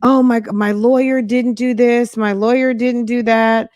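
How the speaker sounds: lightly imitated upset man griping after court; mock upset complaining. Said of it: "like, so upset".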